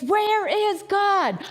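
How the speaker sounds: put-on preacher looming over the boy, sternly. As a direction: jab each word like a finger in his face. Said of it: "in a very stern voice".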